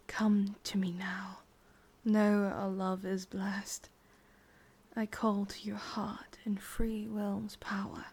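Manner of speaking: slow, hushed spell chant; whispered incantation. Acted. Witch casting the love spell on him, slow whispered chant. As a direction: murmur the charm like casting it.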